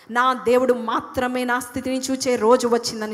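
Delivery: loud preaching proclamation; fervent declaration. Real, not acted. Preacher leads congregation to declare loudly, fervent. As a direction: proclaim it at full force. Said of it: "చెప్పండి".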